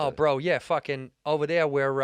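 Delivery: improvised Boston bro talk; Boston accent. Acted. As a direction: try a casual Boston accent. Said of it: "say if you're a Bo-, from Boston".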